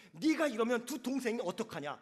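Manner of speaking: scolding line with a laugh in it; mock scolding. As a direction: play the grown-up scold, amused. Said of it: "다 큰 애처럼 혼내키고 있더라는". (웃음 섞인 흉내 꾸중)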